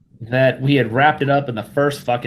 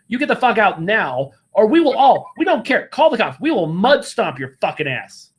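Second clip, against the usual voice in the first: raised, heated rant, higher pitch; angry telling-off; 5 semitones higher than usual. Pretend. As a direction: chew him out like you should have on day one. Imagined rant telling him off.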